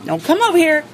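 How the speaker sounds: high, anxious plea; nervous warning. Real, not acted. Nervous owner warning the rooster off. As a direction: back off, buddy, a bit scared.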